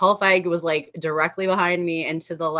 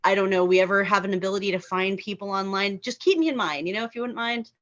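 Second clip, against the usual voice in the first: higher-pitched, soft wheedling request; imagined polite pitch; 5 semitones higher, 3 dB quieter than usual. Acted. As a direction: make a sweet little sales pitch to someone important.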